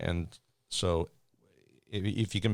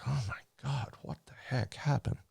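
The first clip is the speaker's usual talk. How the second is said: unvoiced, higher shocked whisper; 6 semitones higher, 4 dB quieter than usual. Attendant reacting to the pilot's warning, shocked whisper. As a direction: breathe it out in shock.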